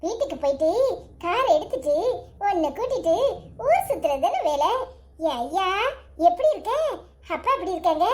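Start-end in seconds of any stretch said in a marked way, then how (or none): 0.0-4.7 chuckling fondly. Acted. Grandpa laughing with grandson.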